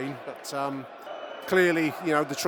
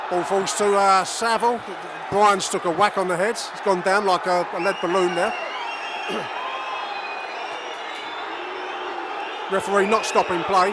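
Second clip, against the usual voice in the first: loud, higher commentary, furious at the referee; outraged play-by-play; 7 semitones higher, 8 dB louder than usual. Real, not acted. Fan commentator fuming to listeners about poor refereeing, loud and outraged. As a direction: rage at the ref while calling the game.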